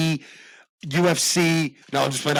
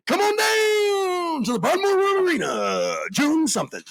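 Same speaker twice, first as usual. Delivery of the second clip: 1930s announcer; 11 semitones higher than usual. Acted. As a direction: bellow it like a vintage showman. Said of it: "nineteen thirties announcers".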